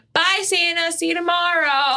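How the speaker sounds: put-on high, cheery little kid; toddler voice. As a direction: wave bye like a toddler. Toddler quote.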